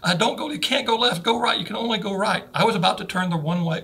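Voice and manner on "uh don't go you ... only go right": higher, urgent warning to the driver; pastor's warning. Retold or imitated. Pastor warns the driver in the truck, higher urgent voice. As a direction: call out no, no, don't go left. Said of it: "He's like".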